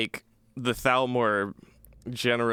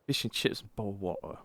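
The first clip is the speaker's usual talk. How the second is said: put-on British accent; 8 dB quieter than usual. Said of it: "Maybe I'll British for".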